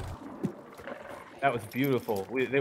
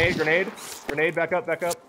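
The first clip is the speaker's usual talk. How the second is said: urgent shouted warning, higher; grenade warning yell; 5 semitones higher than usual. Real, not acted. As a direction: yell grenade to warn your teammate. Grenade incoming in firefight.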